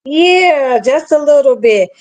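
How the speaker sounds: glitchy robotic mic; robot-sounding audio. Real, not acted. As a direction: voice breaking up like a robot. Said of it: "You sound like a robot".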